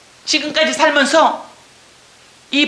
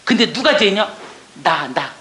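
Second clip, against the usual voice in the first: ordinary talk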